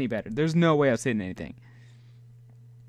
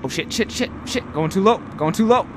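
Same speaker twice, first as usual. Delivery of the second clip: alarmed warning; 4 semitones higher, faster than usual. Real, not acted. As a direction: sound the alarm on yourself. Alarm as sub sinks.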